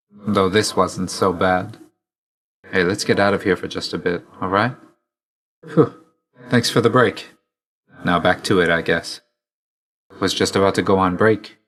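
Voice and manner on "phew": short "phew" of relief; relieved exhale. Acted. Catching breath with a friend after a break, relieved exhale. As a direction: blow out a quick relieved breath.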